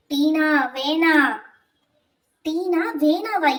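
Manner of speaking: lightly voiced ghost, slow; slow ghostly taunt. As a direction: draw the name out teasingly. Ghost mocks teacher's name slowly.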